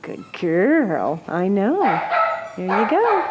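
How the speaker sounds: gently cooing at a dog; talking to a dog. Real, not acted. Praising shelter dog with treats.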